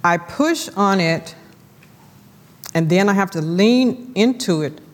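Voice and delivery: measured, reflective reading of her own devotional; reading her devotional aloud. Shown as a demonstration. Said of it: "And I want to read it to you".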